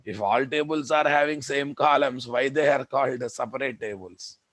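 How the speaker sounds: exasperated scolding. Real, not acted. Teacher scolds students, exasperated.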